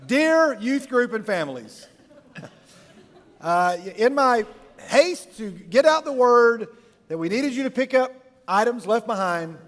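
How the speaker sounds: slow, deliberate recital; measured, halting official notice; mock-formal email reading. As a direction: spell out the apology phrase by phrase. Reciting his own written correction email.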